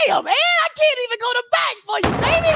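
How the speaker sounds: high, quick mock exasperation; hammed-up exasperated aside. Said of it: "I was like".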